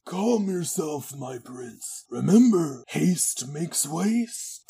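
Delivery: slow, drawn-out villain advice; hammed-up sage villain; Clyde voice. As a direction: soothe the prince like an old schemer. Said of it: "Clyde on set energy".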